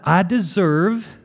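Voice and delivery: a touch of Southern drawl on deserve; southern tang. Real, not acted. Pastor hearing his own Southern tang, lightly. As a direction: slip into a slight Southern twang. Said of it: "that had a southern tang to it".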